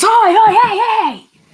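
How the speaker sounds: high, loud attention-grabbing shouts; yelling. Acted. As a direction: holler to draw the creature away. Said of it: "the Night Rabbit yells".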